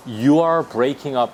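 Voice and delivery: very slow, every word spaced; teacher modelling slowly; slow demo. Shown as a demonstration. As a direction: spell it out for learners. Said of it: "이렇게 하면 돼요".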